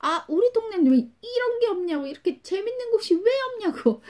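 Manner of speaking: very high, imitated boyish mock complaint; playful schoolboys. Middle school boys playing on a steep slope, playful whining. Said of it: "장난치면서".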